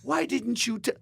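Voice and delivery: high, loud exasperated squeal; mock outrage at the friend; incredulous. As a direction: demand it in disbelief. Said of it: "I'm looking at him going".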